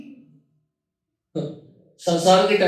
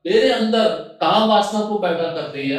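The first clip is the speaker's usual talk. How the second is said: raised, declaimed confession of desire; louder, higher recited love speech; voiced enamoured suitor; 3 semitones higher, 4 dB louder than usual. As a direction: lightly play a smitten man declaring himself. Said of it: "और कहता है".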